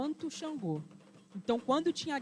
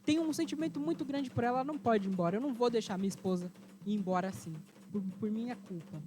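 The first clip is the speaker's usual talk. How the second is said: sad husband; 2 semitones higher than usual. Acted. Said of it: "ficou muito triste".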